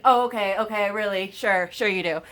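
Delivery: sarcastic jab at the doctor. Retold or imitated. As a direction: drip with disbelief. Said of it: "And I was like".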